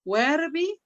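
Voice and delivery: Verbi with the V said like a w, WER-bi; Latin u as w. Shown as a demonstration. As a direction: say Verbi with a w sound at the start. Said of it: "recordar la pronunciación de la U latina".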